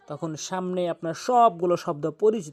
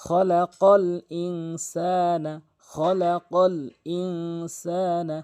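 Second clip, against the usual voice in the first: খলাকল ইনসানা drawn out very slowly in a chanted tune; slow recitation; 3 dB louder, much slower than usual. Shown as a demonstration. Teacher reciting the phrase slowly for students to copy. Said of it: "recites phrase for students".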